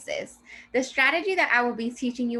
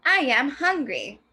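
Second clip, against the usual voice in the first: exclamation; 4 semitones higher, 4 dB louder, slower than usual. Shown as a demonstration. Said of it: "Let's read it with a little bit more of an expression".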